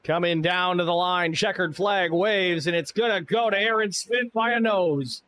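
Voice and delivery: drawn-out finish-line call; race caller. Acted. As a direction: stretch the checkered flag call, then lift. S0 calls the checkered flag.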